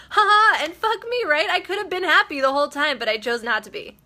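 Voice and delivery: high and loud, laughing through the words; laughing retold quote. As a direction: laugh it out, amazed at yourself. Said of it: "And she was like".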